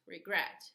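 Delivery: "regret" with the weight on the second syllable, re-GRET; teacher modelling "regret" as re-GRET; stress on GRET. Shown as a demonstration. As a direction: lean on GRET in "regret", keep "re" light. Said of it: "the stress is gret".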